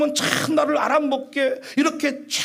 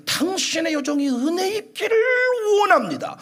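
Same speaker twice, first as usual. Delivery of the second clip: pleading prayer; 5 semitones higher than usual. Acted. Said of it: "하니 이르되".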